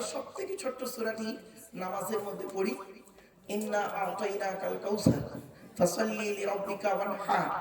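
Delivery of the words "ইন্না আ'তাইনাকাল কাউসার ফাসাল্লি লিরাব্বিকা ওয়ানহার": slow, measured recitation of the verse; Quran recitation. Acted. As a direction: recite it slowly and carefully.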